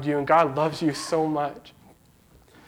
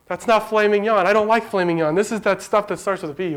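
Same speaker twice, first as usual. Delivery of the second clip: excited wife; 4 semitones higher than usual. Retold or imitated. Wife corrects husband, excited.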